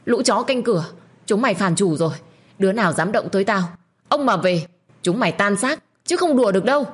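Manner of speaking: high shouted threats that climb to a yell; screaming threats. Acted. Tiên screams at servants forcing her to drink, furious yell. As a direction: scream at the servants to scare them off. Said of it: "Tiên lúc này gào lên".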